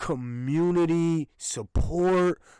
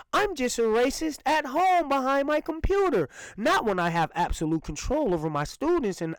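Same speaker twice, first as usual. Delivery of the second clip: mock teacher's excuse; 3 semitones higher than usual. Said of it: "when she said".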